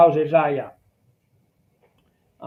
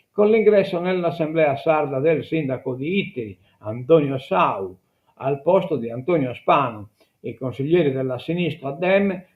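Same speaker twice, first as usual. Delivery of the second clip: reading an article aloud to listeners; measured newsreader delivery; news read; 2 semitones higher than usual. Acted. (lettura di notiziario)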